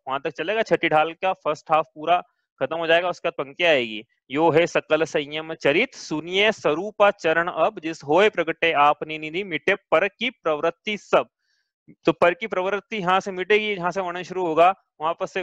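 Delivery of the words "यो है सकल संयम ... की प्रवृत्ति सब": slow, measured chanting of scripture verse; deliberate metrical reading of a Hindi verse; verse recitation. Acted. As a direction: recite the couplets slowly, drawing out each word.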